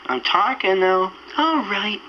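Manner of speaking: ordinary delivery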